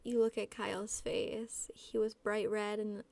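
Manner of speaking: even, measured reading voice; story narration. A narrator's reading. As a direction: read the story aloud in a restrained, level tone. Reads fan fiction aloud.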